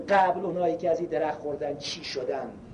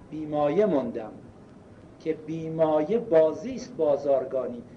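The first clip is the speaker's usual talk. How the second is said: poem recitation; 3 semitones lower than usual. Acted. Preacher recites the poem he read the old man, measured.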